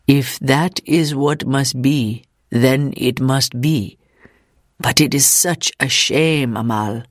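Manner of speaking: slow, lightly voiced resigned man; resigned visitor. Visitor accepts his wife's fate before Ida, mildly resigned. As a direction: give in slowly, with a hint of regret.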